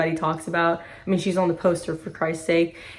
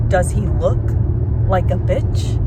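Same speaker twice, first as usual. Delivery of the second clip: lightly acted interrogator, pausing mid-question; movie tough guy. Fan doing her favorite movie line justice, measured mock challenge. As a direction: deliver the famous line with a measured pause. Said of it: "I need to give this justice".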